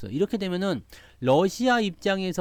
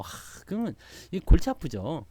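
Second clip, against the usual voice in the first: ordinary delivery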